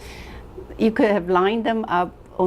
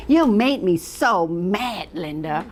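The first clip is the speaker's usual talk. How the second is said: mock accusing complaint. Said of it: "did you hear people say".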